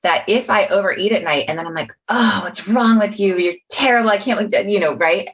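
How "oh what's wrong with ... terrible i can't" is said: lightly raised, scolding inner voice; mock berating yourself after overeating; a touch of a disgusted inner critic; harsh self-criticism. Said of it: "I lock myself into that pattern".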